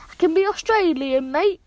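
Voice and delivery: badly faked Australian accent; attempted Australian accent. Shown as a demonstration. Ten-year-old showing listeners accents, badly faked Australian accent. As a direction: have an unconvincing go at an Australian accent. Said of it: "Nothing like it".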